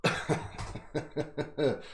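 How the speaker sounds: silent, airy giggle fit; helpless wheeze of laughter; breathy wheezing laugh. Real, not acted. Laughs at own joke.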